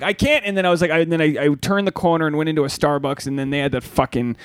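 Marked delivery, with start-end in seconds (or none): 0.0-0.4 mock exasperated. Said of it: "I'm just like".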